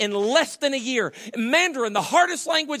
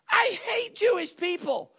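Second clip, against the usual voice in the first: high, slow declared retort; mock shout; 11 semitones higher than usual. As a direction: belt it out slowly, deadpan payback. Co-pilot's punchline retort.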